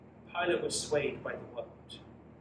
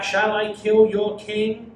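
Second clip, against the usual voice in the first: slow, loud, higher retort; shouted back; 5 semitones higher, 9 dB louder, slower than usual. Acted. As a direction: fling it back at the crowd. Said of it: "Pilate shouted back".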